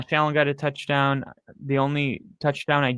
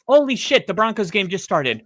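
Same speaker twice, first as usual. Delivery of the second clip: excited outburst; 6 semitones higher than usual. Real, not acted. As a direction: blurt it out, caught off guard. Fan sees Broncos game started.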